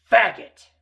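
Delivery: one sharp, mocking burst; jeering insult. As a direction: throw the slur out loud and high. Retold insult after he laughed.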